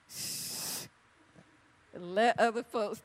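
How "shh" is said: soft unvoiced shh; shush. Shown as a demonstration. Telling the talkers in the congregation to hush. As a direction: hush the chatterers. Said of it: "If you talk a lot".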